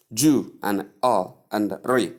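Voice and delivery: "jew", "all", "re" said slowly apart; split into syllables. Shown as a demonstration. Teacher explains the pronunciation of jewelry, slow syllable split. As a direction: break it slowly into JOO, UL, REE. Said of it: "That's the pronunciation".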